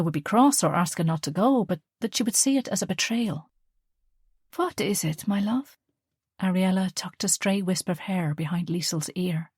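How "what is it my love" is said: gentle mother. Acted. Mother coaxing her daughter, lightly voiced and gentle.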